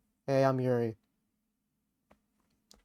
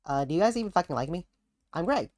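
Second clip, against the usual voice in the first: Greg impression; faster than usual. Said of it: "impression of Greg".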